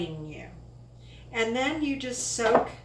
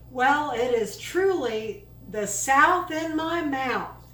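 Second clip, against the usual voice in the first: louder, slower, savoring the saying; slow and proud, like quoting a Southern saying; drawled catchphrase; 4 semitones higher, 5 dB louder than usual. Shown as a demonstration. Cook savoring her dip, slow proud catchphrase. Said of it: "I think that's how they say it".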